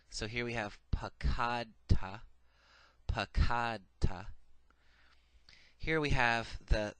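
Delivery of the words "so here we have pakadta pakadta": "pakadta" slow, stress pulled back onto "kad"; Hebrew pronunciation demo. Shown as a demonstration. Teacher showing the retracted accent to students, slow and deliberate. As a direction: lean on the middle syllable of "pakadta", slowly. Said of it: "notice also that the accent has retracted to the second syllable".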